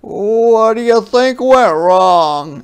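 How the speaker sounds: high, slow patient question; gentle father. Acted. Papa asks Ruthie, high, slow and patient. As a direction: lead her to the answer. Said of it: "asked Papa".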